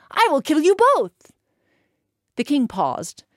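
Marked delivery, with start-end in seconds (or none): 0.1-1.3 higher and louder threat; threatening. Acted. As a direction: hurl the threat at the king. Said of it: "And Hans said".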